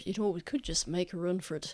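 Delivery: mild quiet aside. Acted. Character suggesting escape to companions, quietly. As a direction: murmur it over your shoulder. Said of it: "quietly say over his shoulder".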